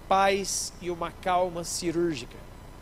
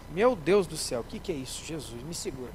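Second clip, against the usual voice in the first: fading horror; 5 semitones lower than usual. Acted. Squeamish surgeon faints at blood.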